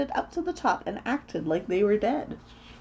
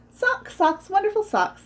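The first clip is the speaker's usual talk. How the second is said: put-on high-pitched childish chant; high, delighted refrain; gleeful; 12 semitones higher, 4 dB louder than usual. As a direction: exult in your beloved socks. Tina's gleeful refrain repeated.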